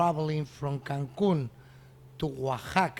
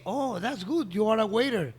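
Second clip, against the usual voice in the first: retold delight, higher pitched; pleased surprise; 5 semitones higher than usual. Restaurant owner delighted to meet a waiter, pleased surprise. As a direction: lift the voice in pleased discovery.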